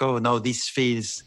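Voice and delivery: put-on slow, lightly Eastern European accent; a hint of vampire Eastern European accent; Nandor's Eastern European accent. Actor finding the character's voice, slow Eastern European accent. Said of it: "the accent I do in it".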